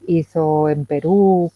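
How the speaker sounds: usual speaking voice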